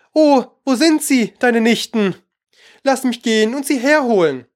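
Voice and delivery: high, eager curiosity. A narrator's reading. Alice curious about new acquaintances, eager. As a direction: pitch it up, keen to meet them.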